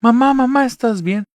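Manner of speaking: high, loud panicked calls for dad; panicked shouting. Retold or imitated. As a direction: scream for help after mom falls. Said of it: "empiezo a gritar". (gritos de pánico, agudos, llamando a papá)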